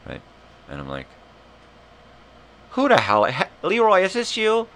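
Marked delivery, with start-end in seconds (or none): 2.7-4.7 high, loud, climbing shout; loud mock outburst. Call recipient shouting at the caller, mock outburst. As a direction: yell it, voice shooting up. Acts yelling back at scammer.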